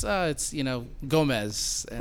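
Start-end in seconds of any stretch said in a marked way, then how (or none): 1.1-1.9 "Gomez" said slowly, in two syllables; common mispronunciation. Shown as a demonstration. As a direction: say "Gomez" with a clear -ez ending. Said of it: "people automatically think it's".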